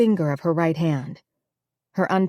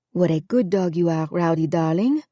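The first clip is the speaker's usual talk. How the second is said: warm. A narrator's reading. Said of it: "Her still strong voice was warm".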